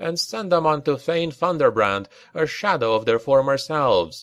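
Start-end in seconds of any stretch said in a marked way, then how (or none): none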